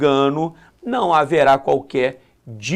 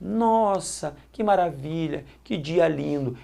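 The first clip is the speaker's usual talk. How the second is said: softer, dreamy delight at morning; soft delighted wonder; 6 dB quieter than usual. Shown as a demonstration. Waking at dawn, opening the window, soft delighted wonder. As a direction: savour it quietly, enchanted. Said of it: "abre a janela e começa".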